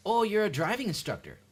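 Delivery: put-on knowing surprise; pushy acquaintance. Someone meeting a driving instructor, high mock-eager voice.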